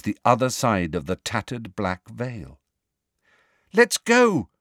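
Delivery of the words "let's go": high, loud, urgent plea to leave; frightened, pitched-up shout; scared call. A narrator's reading. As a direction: call out in alarm from a distance. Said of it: "She sounded scared".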